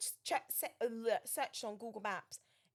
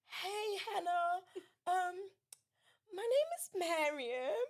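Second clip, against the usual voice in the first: retold desperate phone call; urgent plea; 5 semitones higher than usual. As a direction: beg for help, close to tears.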